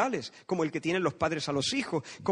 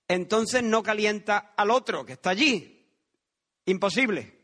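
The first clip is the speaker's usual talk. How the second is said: indignant retort; 3 semitones higher, 5 dB louder than usual. Acted. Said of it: "Yo le respondería".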